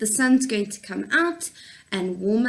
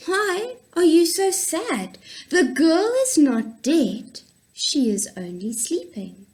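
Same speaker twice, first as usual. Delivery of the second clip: lightly voiced Jesus reassuring; 3 semitones higher than usual. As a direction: comfort the mourners, rising then settling. Jesus comforting mourners.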